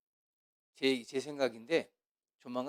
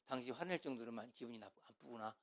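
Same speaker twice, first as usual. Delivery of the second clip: empathetic soft answer; 4 semitones lower, 17 dB quieter than usual. Shown as a demonstration. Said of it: "이렇게 얘기해야 돼".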